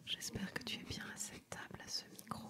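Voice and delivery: soft breathy ASMR whisper. Retold or imitated. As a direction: whisper it gently, late at night. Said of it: "au lieu que ce soit vraiment quelque chose de plutôt tranquille".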